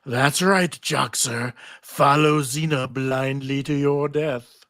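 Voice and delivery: a hint of a slow, sly tempter; lightly voiced Orpheus coaxing, not truly whispered. Orpheus coaxing Joxer, mildly sly and slow. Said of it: "Orpheus whispers to Joxer".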